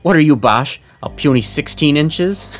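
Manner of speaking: ribbing with a laugh in the voice; mocking laugh. Captain teasing Bash about his arms, laughing mockery.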